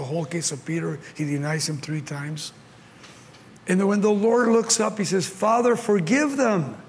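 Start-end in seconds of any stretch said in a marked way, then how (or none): 5.3-6.8 pleading prayer. Acted. Acted plea of Jesus on cross.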